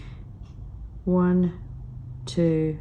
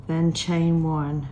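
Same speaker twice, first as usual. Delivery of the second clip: hoarse from a cold; croaky, recovering from a cold. Real, not acted. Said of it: "Excuse my croaky voice".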